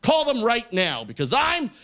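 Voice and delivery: high, slow, indignant plea; mock victim outcry. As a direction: cry bullying, drawing the words out. Plays victim to security, retold.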